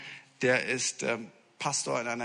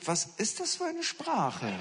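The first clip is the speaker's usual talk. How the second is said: baffled laugh; 11 semitones higher, 3 dB quieter than usual. Retold or imitated. Mocking baffled listener to dialect.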